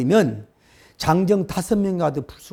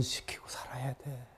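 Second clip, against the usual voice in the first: whisper; 5 semitones lower, 17 dB quieter than usual. Real, not acted. Whispered aside to congregation.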